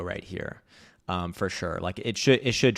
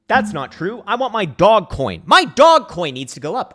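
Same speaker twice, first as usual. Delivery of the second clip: put-on high, whiny greedy kid voice; sarcastic impression of a dog coin fan; mock crypto gambler; 11 semitones higher, 11 dB louder than usual. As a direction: parody a desperate shitcoin holder, much higher and louder. Mocks crypto shitcoin buyer.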